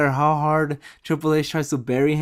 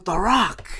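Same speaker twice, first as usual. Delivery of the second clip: booming, drawn-out high catchphrase, much louder; The Rock's catchphrase; 11 semitones higher, 9 dB louder, slower than usual. Retold or imitated. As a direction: bellow it like the Rock entering the arena. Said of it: "And then you hear".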